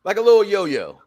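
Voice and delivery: slow, high, mock-excited fan voice; imitating a hyped crowd; mock fan cheering. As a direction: ham up a wrestling fan egging it on. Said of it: "they play on fans like this".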